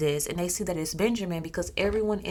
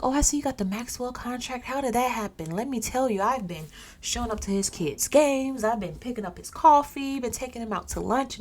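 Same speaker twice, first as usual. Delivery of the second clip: a touch of fake buddy-buddy charm, lightly raised; fake friendly; 5 semitones higher than usual. Coworker Steven fishing for info, mildly fake friendly. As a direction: act all friendly to fish for information. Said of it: "try to act all friendly just to get some information".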